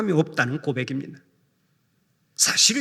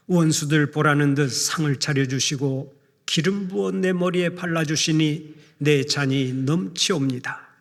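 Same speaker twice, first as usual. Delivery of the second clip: scripture reading. Acted. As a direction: read it like a solemn prayer, unhurried. Reads Psalm 23 aloud.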